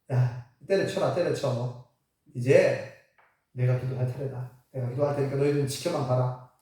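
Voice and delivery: lightly voiced low, cool prophet; dismissive prophet. Elijah dismisses the worn-out rival prophets.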